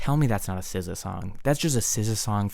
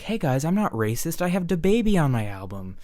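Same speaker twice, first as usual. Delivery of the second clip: mock pop star; 6 semitones higher than usual. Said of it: "It's like".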